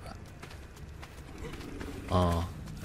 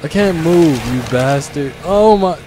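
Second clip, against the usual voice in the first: angry yelling; 4 semitones higher, 6 dB louder than usual. Real, not acted. Stuck while being attacked in game.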